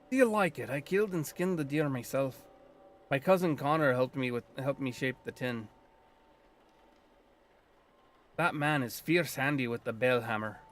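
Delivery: put-on light Scottish lilt for the old druid; a hint of Scottish brogue, gruff and proud; lightly voiced Scottish druid; Scottish accent. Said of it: "I'm giving him a Scottish accent".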